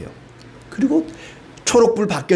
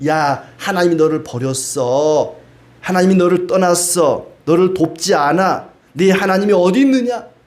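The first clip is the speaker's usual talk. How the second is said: mocking. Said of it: "조롱하고 모욕하고 비웃습니다".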